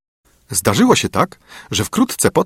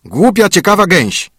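high, louder spiteful dwarf; dwarf insult; 10 semitones higher, 5 dB louder than usual. A narrator's reading. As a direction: spit the insult as an angry dwarf. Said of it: "odparł Karzeł".

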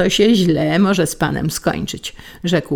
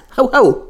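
mock dog bark; 8 semitones higher, 5 dB louder than usual. Wife mimics a rabid dog.

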